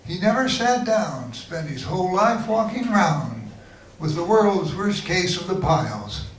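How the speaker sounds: measured, lilting limerick reading; limerick recital. Acted. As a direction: recite it as comic verse. Recites own comic limericks.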